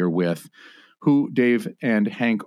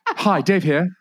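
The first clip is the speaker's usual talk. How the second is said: mock intro; 10 semitones higher, 3 dB louder, slower than usual. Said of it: "this is Dave".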